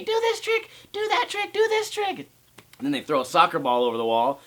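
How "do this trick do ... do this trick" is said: put-on high whiny kid voice; high-pitched bratty kid imitation; mocking kids. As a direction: mimic pestering kids in a high nasal whine. Kids yelling at him.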